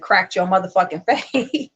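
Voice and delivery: laughing through the taunt; mocking laugh as the last words land. Real, not acted. Laughing at the streamer while taunting her.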